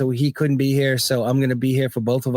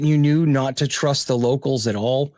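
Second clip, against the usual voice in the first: laughing through a misspoken line; half-shouted with a laugh; laughing slip. Real, not acted. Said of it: "I'm sorry, in Iraq".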